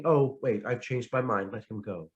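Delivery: queen sparing her victim, casual and offhand; nonchalant. Retold or imitated. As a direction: toss it away as if it's nothing. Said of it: "Cersei says somewhat nonchalantly".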